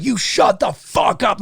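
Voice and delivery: slow, hard command; retold action-hero line; tough-guy threat. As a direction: shut them down, slow and dangerous. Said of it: "and he's like".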